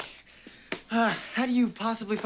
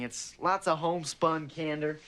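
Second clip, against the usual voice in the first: slow southern drawl, trailing lower at the end; 3 semitones lower than usual. Shown as a demonstration. Student showing his debate style to his idol, slow southern drawl. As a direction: lay on homespun country modesty, drawn out. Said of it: "is that what you mean by homespun candor".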